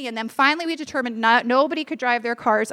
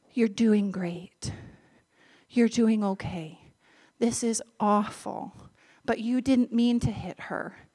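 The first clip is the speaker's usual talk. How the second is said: soft, slow comforting murmur; calm a scared stranger gently; low reassuring voice sinking to a whisper; soothing reassurance; 3 semitones lower, 4 dB quieter than usual. Retold or imitated. Comforting a shaken driver.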